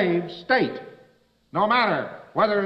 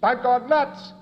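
excited confession; 7 semitones higher, slower than usual. Retold or imitated. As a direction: announce it like startling news. Crazy fellow's confession.

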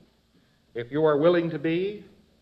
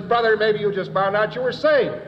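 higher, louder hearty congratulating; mock congratulation; 5 semitones higher, 4 dB louder than usual. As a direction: clap him on the back with words. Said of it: "And I says".

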